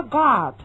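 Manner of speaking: "God" with a wide-open American ah. Shown as a demonstration. Teacher contrasting American God. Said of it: "他发God".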